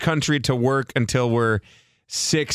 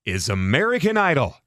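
Ryan Seacrest voice. Pretend. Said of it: "Can you also do a Ryan Seacrest voice".

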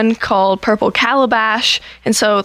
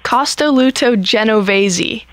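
slow, careful Italian accent; slower than usual. Shown as a demonstration. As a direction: enunciate it like a native Italian. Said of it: "With a good accent".

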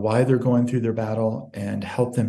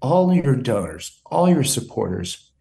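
holding back tears through the mother's words; choked up. Real, not acted. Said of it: "I'm getting a little choked up".

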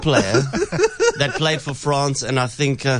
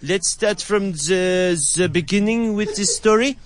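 put-on French accent; 3 semitones higher than usual. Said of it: "such a French accent".

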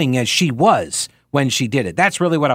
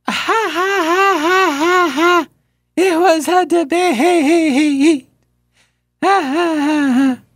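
high, slow cackling laugh as an annoying politician; mocking Kamala Harris laugh; 14 semitones higher, much slower than usual. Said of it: "mimic how she sounded".

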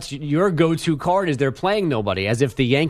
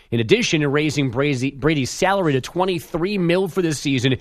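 measured radio update delivery; sports news read. Acted. Update anchor reading league news to listeners, news read. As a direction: read the headlines as a sports bulletin.

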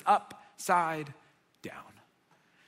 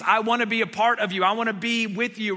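louder, quick and earnest; eager devotion; 2 semitones higher, 5 dB louder, faster than usual. Retold or imitated. Peter to Jesus, eager and earnest. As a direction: Peter blurting his love. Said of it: "loving Jesus".

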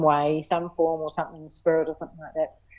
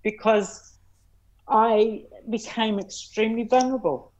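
higher voice, real feeling coming through; getting emotional; 5 semitones higher than usual. Real, not acted. Guest admitting vulnerability to interviewer, emotional. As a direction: confess it with emotion rising. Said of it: "I'm gonna get really emotional here".

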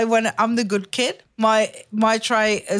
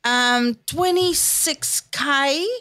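higher-pitched, mildly amazed mum; surprised mum; 5 semitones higher than usual. Retold or imitated. Mum estimating the crowd after the show, surprised. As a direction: imitate mum marvelling, stretching out the end. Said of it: "that's surprise".

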